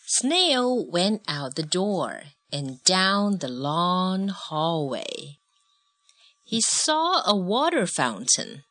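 slow, measured picture-book narration; story narration. A narrator's reading. Adult reading a snail story with a child, measured narration. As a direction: read it clearly to a child, word by word.

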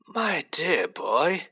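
put-on slow, high-pitched old headmaster, gently kind; kindly. A narrator's reading. Old headmaster to a pupil, kindly. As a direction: draw it out with mild kindness. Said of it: "said Tippett kindly".

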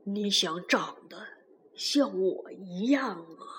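soft, low wondering voice; softly. Acted. Tyrannosaurus to the sleeping baby, soft murmur. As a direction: say it softly over the sleeping child. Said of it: "霸王龙小声地说".

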